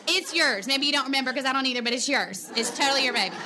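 hammed-up reassurance, tumbling out fast; playful insistence. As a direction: laugh it off, insisting it's his. Joking reply about the postman.

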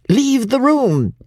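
high, loud, slow roar. A narrator's reading. Gentleman ordering the daughter out, roaring. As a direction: drag out the order like a bellow. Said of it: "he roared out".

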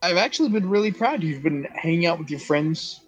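a hint of a proud, excited mother; lightly voiced mother, pleased with her kid; happy proud mom. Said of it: "very happy and excited".

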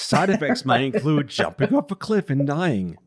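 mock commercial side effects read; smooth TV drug ad parody; pharma ad voice.

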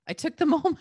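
high, bright laugh breaking into the line. Retold or imitated. Retelling the woman's brave approach, laughing. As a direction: chuckle mid-sentence, proud.

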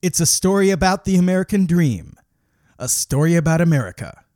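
loud, booming trailer announcer; movie trailer voice. Acted. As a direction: build it like an epic trailer.

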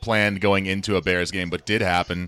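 rough, hungover voice. Real, not acted. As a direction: talk through a hangover headache. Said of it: "I'm hungover today".

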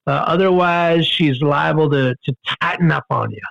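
a hint of a soothing snake charmer; calm warning. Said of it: "the guy came over and said".

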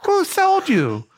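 high, slow, stricken question; alarmed disbelief. Retold or imitated. Caught passenger asking his phone caller, high drawn-out alarm. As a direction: imitate a man realising he's been caught. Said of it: "you could just hear in his voice".

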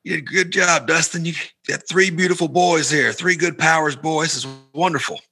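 gushing praise. Retold or imitated. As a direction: act out a delighted uncle's praise. Retelling an uncle's gushing praise.

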